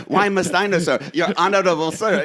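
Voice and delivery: a hammed-up affronted retort; mock indignant reply. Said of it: "and he goes".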